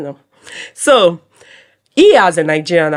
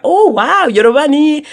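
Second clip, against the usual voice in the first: mock excited; 7 semitones higher than usual. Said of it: "people are, like, excited".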